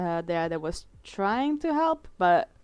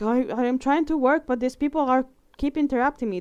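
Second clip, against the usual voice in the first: mildly sassy, higher-pitched complaint; 5 semitones higher, 4 dB louder, faster than usual. Retold or imitated. Mimicking the locksmith bothered by onlookers, sassy. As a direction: imitate a put-upon locksmith with some sass. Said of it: "was being really sassy".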